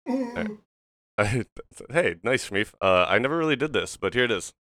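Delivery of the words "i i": tennis grunt. Acted. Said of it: "That, that tennis grunt".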